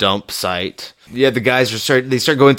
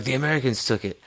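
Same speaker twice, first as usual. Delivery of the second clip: lightly put-on Japanese accent, softer; mock Japanese accent; 2 semitones higher, 8 dB quieter, faster than usual. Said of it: "my really offensive, uh, Japanese accent".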